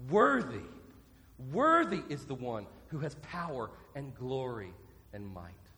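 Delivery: loud cry of praise, bursting on the first word. Acted. Preacher voicing the whole earth's praise of the King, crying out. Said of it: "as the whole earth cries out".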